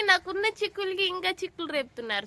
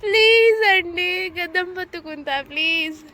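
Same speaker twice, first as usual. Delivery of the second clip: slow, drawn-out, louder mock whine; pleading; 4 dB louder, slower than usual. Wife begging her husband to oil her hair, slow playful whine. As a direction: beg him, stretching it out slowly. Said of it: "ఎలా బతిమలాడతానో మీరే చూడండి".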